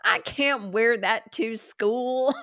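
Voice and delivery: slow, drawn-out protest at normal volume; mock complaint. Child objects to mom's purchase, slow toned-down mock whine.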